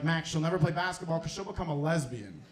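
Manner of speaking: low, soft aunt voice. Retold or imitated. Aunt warns the comedian, in a low soft voice.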